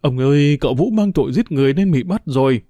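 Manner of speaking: understated tearful wail; lightly acted crying out; loud crying. A narrator's reading. Housekeeper breaks news of an arrest, mildly tearful cry. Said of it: "dì Ba khóc to lên".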